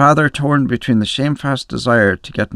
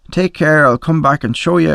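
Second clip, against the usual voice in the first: shouted threat; 6 semitones higher than usual. A narrator's reading. Drunk boy threatening the women as he is dragged off, shouted. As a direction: shout it back over your shoulder. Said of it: "I shouted".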